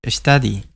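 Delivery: "Study" said as a clear STAH-dee, two short syllables; pronounce study. Shown as a demonstration. Spanish-speaking teacher models "Study" for his students. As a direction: model "Study" cleanly for learners. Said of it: "Esto se pronuncia study".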